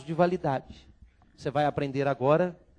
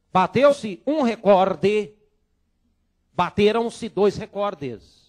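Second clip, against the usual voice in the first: slow and loud, recorde stressed on -cor-; slow, deliberate model sentences; 4 semitones higher, 7 dB louder, slower than usual. Shown as a demonstration. Teacher models recorde in slow example sentences. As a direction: spell each example out slowly. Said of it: "Você só vai falar recorde".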